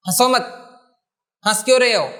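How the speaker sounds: हंस and हंसो with a short nasal vowel, no separate n; quick, short vowel. Shown as a demonstration. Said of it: "इस तरीके से बोलेंगे".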